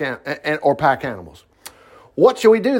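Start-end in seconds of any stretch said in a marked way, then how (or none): 2.2-2.8 panicked plea from a cornered king; cried out. A narrator's reading. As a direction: cry it out like a trapped king. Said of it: "the king of Israel cried out".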